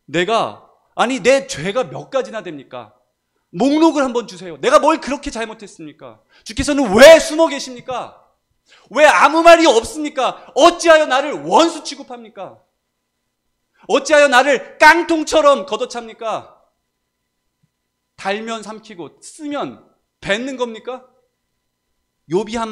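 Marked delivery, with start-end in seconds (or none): 0.1-16.5 impassioned high, loud remonstrance building to a shout; protesting to God. Acted. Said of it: "따집니다". 18.2-21.1 high, slow, pointed reproach; accusing question. Acted. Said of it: "따집니다".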